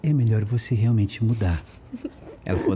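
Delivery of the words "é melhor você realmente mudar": lightly voiced speech therapist; imitating the speech therapist. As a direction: do a slight take on her voice. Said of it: "Vou imitar ela".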